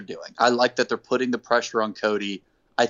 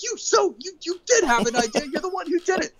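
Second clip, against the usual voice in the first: very high, strained accusing squeal; sputtering Tony Schiavone. Retold or imitated. Podcaster mimics Tony accusing MJF in a very high squeal. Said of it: "And Tony's like".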